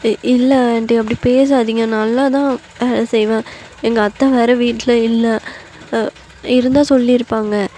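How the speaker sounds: acted wounded protest; near tears. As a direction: plead with the aunt, upset. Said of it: "உங்களுக்கு ரொம்ப அழுகை வருது".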